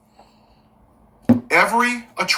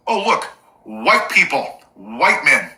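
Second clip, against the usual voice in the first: mock surprise; 3 semitones lower, slower than usual. Mock surprised reveal of culprits.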